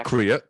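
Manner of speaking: "Accurate" garbled as "ack-ree-ut", loud; mangled pronunciation. Shown as a demonstration. Friend showing his slip of the tongue, "Accurate" mangled as "ack-ree-ut". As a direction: blurt "Accurate" with its middle slipped to "ree". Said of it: "accurate comes out sometimes".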